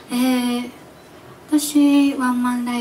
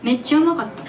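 Osaka dialect try; 2 semitones higher, faster than usual. Shown as a demonstration. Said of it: "大阪弁で".

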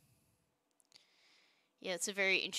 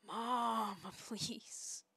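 mock pleading kid; 3 semitones higher, much slower than usual. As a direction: whine to Mom in mock desperation. Voices a kid pleading to mom.

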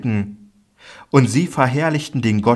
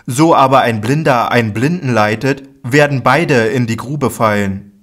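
raised, louder rebuking voice; Jesus answering firmly; 2 semitones higher, 4 dB louder than usual. Acted. Jesus answers the disciples, firm and raised. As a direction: declare it with stern authority.

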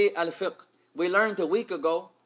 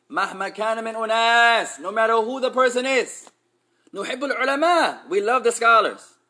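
a touch louder, building up; raised voice; 3 semitones higher, 5 dB louder than usual. Shown as a demonstration. Teacher raises his voice to stress the ruling, building louder. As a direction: raise the voice to drive it home. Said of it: "I'm gonna raise my voice now".

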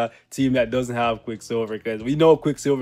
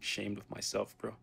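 mock sad; 2 semitones lower, 12 dB quieter than usual. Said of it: "I'm so sad".

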